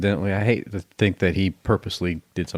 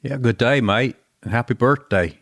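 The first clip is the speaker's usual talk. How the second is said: put-on hammy Aussie greeting accent, muddled; attempted Australian accent. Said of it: "You got some type of Australian".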